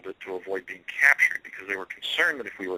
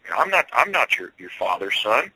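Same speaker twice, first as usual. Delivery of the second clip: put-on rustic Pennsylvania accent; 2 semitones higher, 4 dB louder than usual. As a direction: repeat it in a mild rural Pennsylvania lilt. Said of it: "a rustic Pennsylvania kind of accent".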